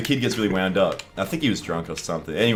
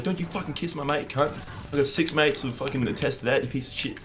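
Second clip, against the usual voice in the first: mock outrage; 8 semitones higher than usual. Acted quarrel, shouting back.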